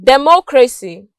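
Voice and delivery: "democracy" stressed on MOC; second-syllable stress. Shown as a demonstration. Teacher illustrating the C Y rule, "democracy" stressed on its second syllable. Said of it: "stressed on their second syllable".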